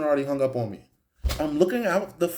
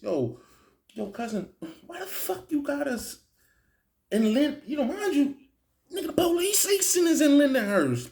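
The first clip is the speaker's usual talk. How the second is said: high, heated yelling into the phone; high-pitched irritated retelling; annoyed phone call; 11 semitones higher than usual. Retold or imitated. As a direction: demand answers from your cousin.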